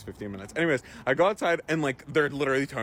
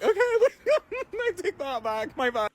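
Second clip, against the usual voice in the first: high, sugary fake apology; mock sweet backpedal. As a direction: squeak it out like you're backing down fast. Mock-sweet backpedal to tow guy.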